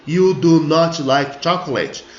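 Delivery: slow, stern, separated "You do not like chocolate"; scolding tone. Shown as a demonstration. Teacher demonstrating how "do not" sounds bossy. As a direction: make it sound like you're picking a fight. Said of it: "parece que você tá sendo muito, é, brigão".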